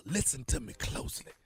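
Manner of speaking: hushed secret whisper. Acted. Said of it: "Why are you whispering?".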